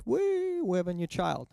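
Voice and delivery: high, giddy whoop of joy; drunken cheer. Retold or imitated. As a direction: cheer it like a tipsy party guest. Drunk baptism guests celebrating.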